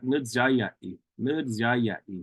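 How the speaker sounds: jiaiyai with a DZ-like j; grandfather's D Z sound. Retold or imitated. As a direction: nu jiaiyai, leaning the j toward dz. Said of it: "more like a D Z sound".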